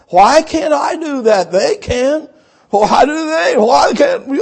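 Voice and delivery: whining, voice cracking into a half-shout; mock whiny complaint. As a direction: mimic a sulky church member who feels cheated. Congregants complaining, mimicked whine.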